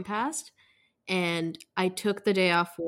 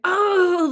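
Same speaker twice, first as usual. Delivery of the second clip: a quick high loud sobbing "oh"; mock sob; 11 semitones higher, 8 dB louder than usual. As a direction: burst into a short retold sob. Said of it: "a quick, like, two-minute sob where I was just like".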